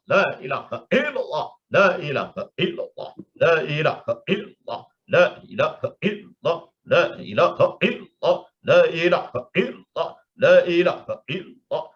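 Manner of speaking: rhythmic devotional chant, repeated over and over; felt dhikr. Shown as a demonstration. Teacher leads remembrance into inner feeling, rhythmic dhikr. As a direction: chant in a steady pulse, gradually building. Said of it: "masuk menjadi zauq, rasa".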